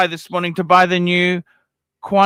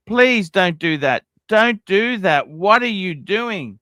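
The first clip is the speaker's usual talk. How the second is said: exasperated pleading; slower than usual. Real, not acted. Begging chat member not to buy.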